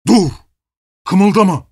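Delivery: sudden harsh command, high and loud; gruff ghostly voice. A narrator's reading. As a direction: bark it like a menacing robber. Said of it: "bir hortlağınkini andıran boğuk bir sesle".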